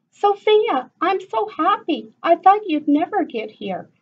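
high, loud happy greeting; excited yell. Acted. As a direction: gush at your cousin. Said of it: "Anita yelled".

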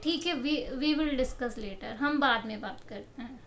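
calm polite brush-off. Shown as a demonstration. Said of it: "you can simply say". (धीमे और शांत स्वर में विनम्रता से टालना)

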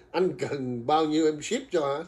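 slow, laughing quote of a viewer's offer; laughing while reading a viewer's comment; quoting with a laugh. Retold or imitated. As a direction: read her line while giggling. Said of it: "Thì Hương Đỗ nói là".

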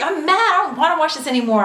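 high, loud, fast whining; mock tantrum. Complaining to hubby she won't watch, high pouting tantrum. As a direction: pout and refuse like a child. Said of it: "I was like".

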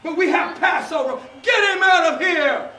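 high, loud gloating tyrant; King Herod. Acted. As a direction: lord it over the prisoner. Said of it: "I am Herod".

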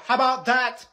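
usual speaking voice

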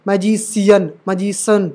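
मैजिशियन slowed, with s for sh, "maji-siyan"; wrong S sound. Shown as a demonstration. Teacher showing what not to say, s instead of sh. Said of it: "ऐसे नहीं पढ़ते".

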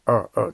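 あー twice as R-coloured 'er'; muffled English er. Shown as a demonstration. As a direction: repeat あー with the tongue dropped, vague and muffled. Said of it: "曖昧な曇った音".

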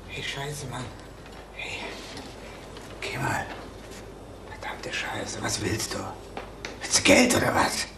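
verängstigt geflüstert; leise, gehetzt, um Zeit ringend; whispered fury. Acted. Bedroht, flüstert panisch. (panisches Flüstern)

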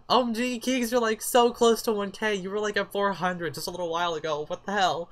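put-on high, loud gushing girlfriend squeal; excited friend. Friend Nicole pointing out the near 1K, excited high squeal. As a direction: gush like an amazed best friend. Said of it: "She was like".

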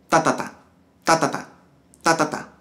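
three quick TAs, then a gap; uneven triplet count. Shown as a demonstration. Teacher showing students the common mistake, bunched triplet count. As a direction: chant "ta, ta, ta" bunched up, leaving a space after. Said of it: "porque pueden hacer esto".

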